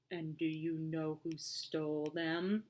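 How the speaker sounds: put-on smiling, humoring a child; amused policeman. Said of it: "hear the smile in his voice".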